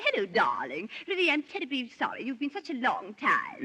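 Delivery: mock Bianca. Wife playing Bianca to rehearse Nick, lightly voiced. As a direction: play the sweet bride-to-be. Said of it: "Now, she'll say".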